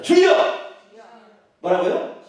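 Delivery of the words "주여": loud, high model prayer cry; full-voiced call to the Lord; shout to repeat. Shown as a demonstration. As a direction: belt it out for the congregation to echo. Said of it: "따라서 해봅시다".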